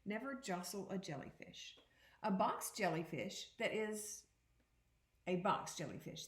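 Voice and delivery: put-on expressive read-aloud to children; picture book read to students; reading aloud to a class. Teacher reads picture book aloud.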